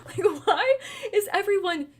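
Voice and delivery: high, loud laughing exasperation; exasperated outburst. Real, not acted. Ranting to listeners about useless officials, loud and exasperated. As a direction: laugh in disbelief while ranting. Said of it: "That made me so angry".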